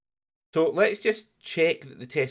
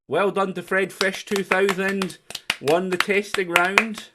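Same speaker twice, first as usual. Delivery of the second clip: announcing winner; 8 semitones higher, 5 dB louder, slower than usual. Acted. Announcing quiz round winner.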